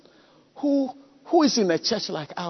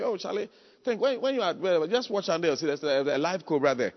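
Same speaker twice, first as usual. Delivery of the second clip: softer, mock-calm warning; 3 semitones lower, 4 dB quieter than usual. Preacher mocking a calm cobra warning to Charlie, mock-calm. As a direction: lightly play far too calm about danger. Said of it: "and I should calmly say".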